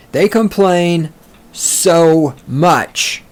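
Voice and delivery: ordinary talk, nothing marked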